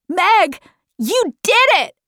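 high, excited congratulation; shouted. A narrator's reading. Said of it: "shouted Calvin".

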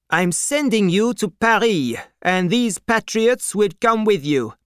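high, officious mayor voice; commanding mayor. A narrator's reading. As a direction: issue orders as the mayor, pitched well up. Mayor in a story.

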